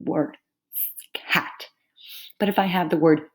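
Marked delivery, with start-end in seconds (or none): 1.1-1.7 CAT as one short solid sound; unbroken single syllable. Shown as a demonstration. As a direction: say CAT in one piece, set apart. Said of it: "does not get broken up".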